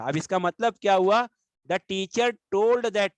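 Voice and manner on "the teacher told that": slow reading. Shown as a demonstration. Teacher rereads example sentence.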